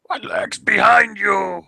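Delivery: slow, high monster shout; screamed. Acted. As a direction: scream it at the intruder. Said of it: "screamed at me".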